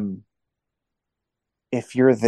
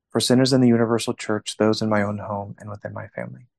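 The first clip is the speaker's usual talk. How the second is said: steady reverent prayer voice; prayer recitation; 4 dB quieter than usual. Acted. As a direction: recite it like a rosary leader. Leads an offering prayer.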